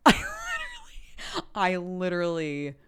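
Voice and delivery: high, teary mock sobbing with laughs; mock crying. High teary imitation of herself crying at Frozen. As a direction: reenacts her own weeping over the movie, high mock sobs. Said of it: "don't know why I'm crying right now".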